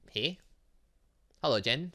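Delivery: ordinary talk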